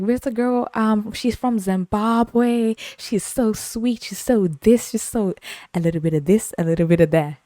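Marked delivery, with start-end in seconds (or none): 0.0-5.3 put-on sweet old lady voice. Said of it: "She's like".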